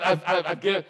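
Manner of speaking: stammering through a laugh; laughing Peter. Retold or imitated. Peter answering Jesus, laughing through the words. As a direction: laugh while you stumble on it.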